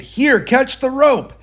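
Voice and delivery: high, slow shout from up above; shouted call. Acted. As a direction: call down the rope loudly and slowly.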